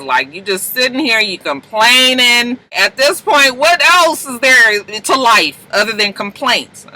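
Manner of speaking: exasperated rant. Retold or imitated. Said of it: "she's just like".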